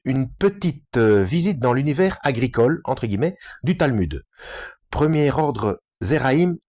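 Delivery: measured read-aloud of a scholarly book. Real, not acted. Reading a Talmud book aloud to listeners, measured delivery. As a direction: read out the chapter clearly, phrase by phrase.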